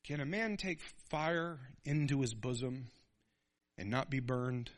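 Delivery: lightly voiced wise father; fatherly counsel. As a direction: gently warn your son. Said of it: "And he goes".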